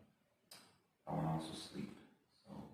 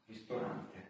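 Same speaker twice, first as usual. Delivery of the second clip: Italian; 4 semitones higher than usual. Shown as a demonstration. Learner compares the word with Italian, Italian accent. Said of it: "In Italian".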